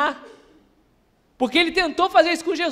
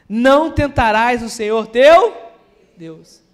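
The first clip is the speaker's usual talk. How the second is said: scripture reading; 6 dB louder than usual. Acted. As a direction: proclaim the passage to the congregation, phrase by phrase. Lê a passagem em voz alta. (leitura bíblica proclamada, forte e pausada)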